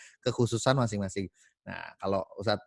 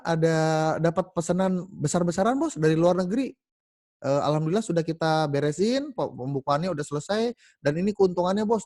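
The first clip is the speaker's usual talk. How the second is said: much higher, louder excited report; a worker at the door with a huge order; breathless worker; 5 semitones higher, 3 dB louder than usual. Acted. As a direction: burst in with great news for the boss. Worker bursts in with news.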